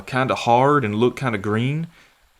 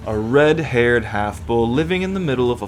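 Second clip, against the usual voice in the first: sneering villain. Acted. Villain character taunts.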